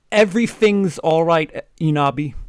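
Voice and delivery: sensitive. Acted. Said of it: "all sensitive".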